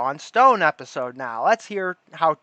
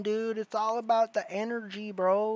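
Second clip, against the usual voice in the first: New Age bro; 6 semitones higher, 4 dB quieter than usual. Pretend.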